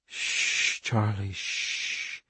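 put-on hushed, whispered shh to a child; calm her down in a whisper; soothing shush. Mother hushes Charlie after her nightmare, whispering.

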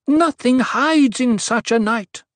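high, loud oracle's voice; booming proclamation. A narrator's reading. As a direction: boom it out to a crowd. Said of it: "Her amplified voice boomed".

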